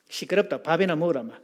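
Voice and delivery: lightly acted Gyeongsang dialect brush-off; curt Gyeongsang husband, mildly acted; Gyeongsang man's retort. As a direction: dismiss it in a Gyeongsang accent. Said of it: "경상도 남자는 이렇게 반응합니다".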